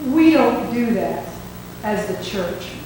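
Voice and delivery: slow, stern pastor retold; lightly acted superior's slow pronouncement; measured refusal. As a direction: lay it down slowly, dropping away at the end. Superior pastor voiced refusing the card.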